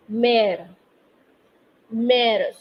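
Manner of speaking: mère with an open "eh", as in "air"; open È sound. Shown as a demonstration. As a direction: model mère twice, open è vowel, falling. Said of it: "a different sound here".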